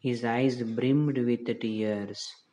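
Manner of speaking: slow, deliberate reading aloud for the class; slow story reading. Shown as a demonstration. Teacher reading the story line to her class, slow and deliberate. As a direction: read each English word out slowly to students.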